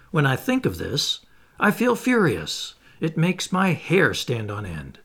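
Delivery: lightly voiced harpooner, growing heated; a hint of a restless sailor fed up with captivity; the Canadian venting frustration, mildly agitated; Ned, impatient. Ned's impatient outburst voiced.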